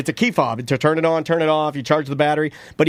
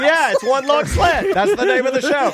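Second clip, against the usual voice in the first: excited; 7 semitones higher than usual. Real, not acted. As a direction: proclaim it like a show title. Excited show title idea.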